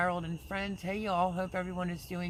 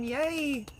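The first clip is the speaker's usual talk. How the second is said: cheering yay; 9 semitones higher, 4 dB louder than usual. Real, not acted. Cheering news son walked.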